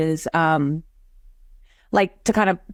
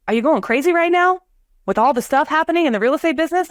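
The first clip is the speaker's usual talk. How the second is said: high excited question; 7 semitones higher than usual. Retold or imitated. Stranger's retold question.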